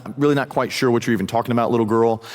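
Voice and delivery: fast, offhand retold brush-off; casual denial. Peter dismissing a little girl the second time, quick and offhand. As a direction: rattle off a light dismissal. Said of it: "Second time".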